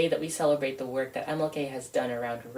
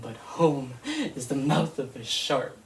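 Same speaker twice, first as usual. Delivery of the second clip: laughing through the words, stress on is; bitter laugh. Acted. Poet echoing her opening line with a rueful laugh.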